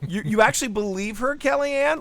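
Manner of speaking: incredulous question. Retold or imitated. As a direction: climb in pitch to a high, incredulous finish. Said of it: "I'm like".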